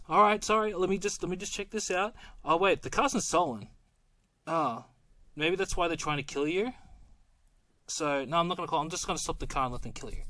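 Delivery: lightly voiced offhand operator; casual indifferent operator. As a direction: shrug it off, quiet and careless.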